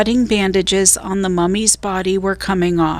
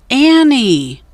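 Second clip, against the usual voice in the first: high, loud shout of her name; 5 semitones higher, 5 dB louder than usual. A narrator's reading. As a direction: yell for her, worried. Jack shouting for lost sister.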